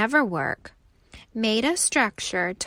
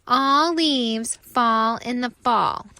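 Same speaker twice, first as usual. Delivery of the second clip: slow, louder drawn-out sing-song jeer; mocking leaves; 3 semitones higher, 6 dB louder than usual. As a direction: stretch it out to rub it in. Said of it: "the other leaves say again".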